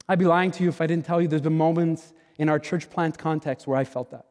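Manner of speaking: ordinary talk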